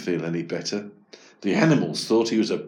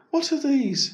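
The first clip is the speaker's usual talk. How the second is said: high, curious puzzlement; surprised wondering. Acted. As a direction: peer into the box. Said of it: "he thought".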